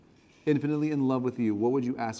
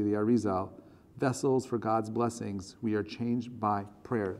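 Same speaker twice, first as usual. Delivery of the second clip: measured, solemn reading of a text; reading aloud. Acted. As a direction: read it out phrase by phrase, earnestly.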